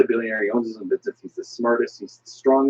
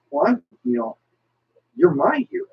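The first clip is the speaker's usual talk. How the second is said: pitched way up, bewildered DC hero; a hammed-up puzzled superhero, much higher; high mock hero voice; 12 semitones higher than usual. DC hero asking Marvel heroes, high and baffled.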